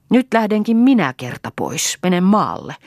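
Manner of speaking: high, heated announcement; angry declaration. A narrator's reading. Mother announcing she leaves for the country, angrily.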